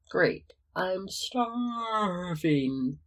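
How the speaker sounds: slow, stretched through a long yawn. Acted. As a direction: talk through a big yawn. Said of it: "Peter managed through a long yawn".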